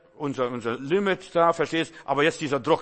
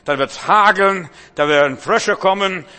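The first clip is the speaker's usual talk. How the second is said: stern threat; 4 dB louder than usual. Acted. Moses threatens Pharaoh.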